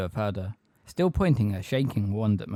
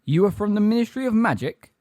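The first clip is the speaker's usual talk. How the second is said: high, loud challenge; incredulous question; 10 semitones higher, 5 dB louder than usual. A narrator's reading. Magorian questioning Umbridge, incredulous challenge. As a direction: question it with raised suspicion.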